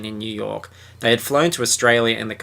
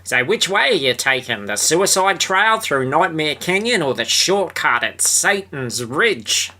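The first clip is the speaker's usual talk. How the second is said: lightly voiced Jake; 4 semitones higher than usual. Jake voiced in story reading.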